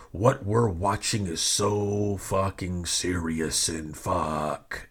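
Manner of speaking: slow, sinking mock solemnity; very serious. Host mocking super serious fans, slow mock-serious delivery. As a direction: drag it out with mock gravity, dropping low at the end. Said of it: "this very serious wrestling fan thing".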